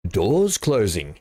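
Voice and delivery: slow, flat automated announcer; train announcement voice. Retold or imitated. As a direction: say it like a recorded train door message. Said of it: "In, in exactly that voice".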